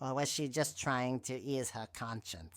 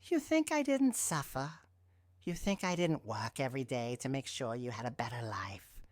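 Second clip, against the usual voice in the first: angry; 6 semitones higher, 4 dB louder than usual. Acted. Mother's furious outburst.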